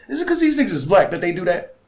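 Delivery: high, loud mock question; show segment host. Summing up the segment's point, high loud questioning. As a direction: pitch the question way up and push it. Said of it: "is to say".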